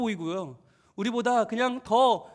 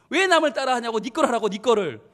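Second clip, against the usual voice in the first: louder, mock parental scolding; parents scolding; 5 dB louder than usual. Parents telling off a copycat child, scolding. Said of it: "혼냈던 거죠".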